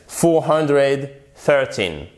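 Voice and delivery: "Four hundred thirteen" said slowly and deliberately; slow model number. Shown as a demonstration. Teacher models the number for learners, slow and clear. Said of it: "teacher models English number".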